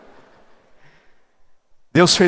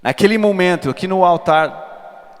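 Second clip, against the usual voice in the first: louder, higher, slowed down; emphatic testimony; 7 semitones higher, 7 dB louder, slower than usual. Acted. Preacher recalling the altar moment to the church, slow and loud. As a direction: lean on it, slow and strong.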